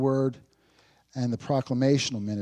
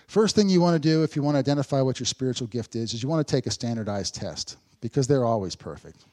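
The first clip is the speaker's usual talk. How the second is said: mock-earnest advice with dry sarcasm; sarcastic; 4 dB louder than usual. Preacher jokes to congregation about gift tests, sarcastic. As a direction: give the tip as if sincere, slyly tongue-in-cheek. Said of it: "most of you caught the sarcasm".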